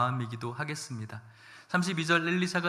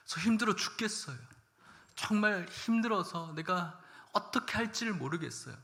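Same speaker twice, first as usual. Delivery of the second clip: higher, pleading cry to God; woman pouring out to God; 4 semitones higher than usual. Acted. Grieving mother pouring out her heart to God, higher pleading voice. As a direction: let her complaint burst out toward God. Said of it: "막 있는 말 없는 말을 다 토로하고".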